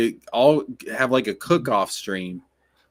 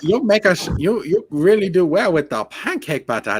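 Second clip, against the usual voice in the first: mock Asian accent, higher pitched; hammed-up Asian accent, pleading pitch; 7 semitones higher than usual. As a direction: imitate a woman's Asian-accented English. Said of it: "say what she said in her Asian accent".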